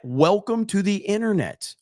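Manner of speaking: mock welcome; stress on welcome. Shown as a demonstration. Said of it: "repeated line".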